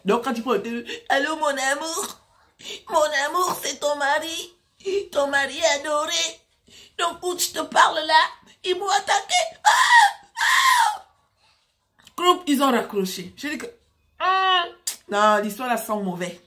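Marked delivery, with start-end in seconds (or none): 1.1-9.3 put-on Cameroonian accent. Supposed husband phones his love, hammed-up Cameroonian accent. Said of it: "c'est l'accent camerounais". 9.6-11.1 very high, loud mock yelp; hammed-up cries of a man being attacked; mock scream. Supposed husband attacked on the phone, mock high screams. 13.7-14.7 long, high hum of doubt; suspicious hum. Retold or imitated. Sister smells a bad story, long high suspicious hum. Her suspicious reaction to the call.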